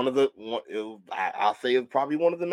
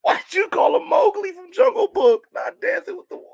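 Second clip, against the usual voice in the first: loud; 9 dB louder than usual. Real, not acted. Teasing co-host over wrong name.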